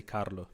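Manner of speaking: Carlo with a rolled R; native pronunciation. Shown as a demonstration. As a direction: say Carlo in the speaker's own accent, rolling the R. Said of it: "in my language and accent".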